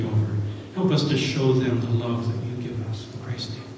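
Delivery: pastor leading the closing prayer, hushed. Acted.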